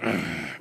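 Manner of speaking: low, quiet sulky throat growl; short mock-angry grumble; angry grunt. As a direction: imitate a cross child grumbling. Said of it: "just angry".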